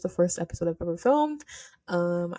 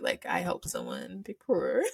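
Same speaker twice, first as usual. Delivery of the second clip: softer, slower, on the edge of tears; choked up; 4 semitones lower, 5 dB quieter than usual. Real, not acted. Telling listeners she helped someone, choking up. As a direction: let the tears catch in the words.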